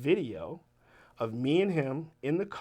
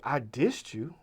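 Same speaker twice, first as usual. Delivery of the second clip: imitated casual, matter-of-fact admission; understated, no drama at all; slower than usual. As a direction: state it as a simple fact. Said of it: "so matter-of-factly".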